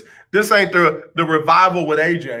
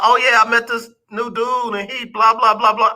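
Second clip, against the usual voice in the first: mock gushing; 5 semitones higher than usual. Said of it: "Don't be running up talking about".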